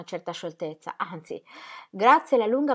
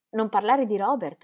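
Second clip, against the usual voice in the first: repeated in amazement; 2 semitones higher, 3 dB louder than usual. Acted. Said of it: "ripeté lei fissandolo sbalordita".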